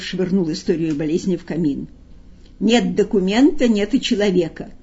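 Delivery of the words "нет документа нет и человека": satisfied. Acted. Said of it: "удовлетворённо говорил Коровьев".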